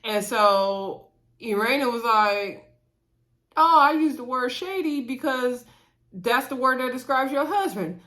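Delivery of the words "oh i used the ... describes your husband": imitating a bold, matter-of-fact reply, pitched higher; bold and blunt. Irena telling Sherelle why she said shady, boldly. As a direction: say it plainly and boldly, no malice. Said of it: "she said it in such a bold way".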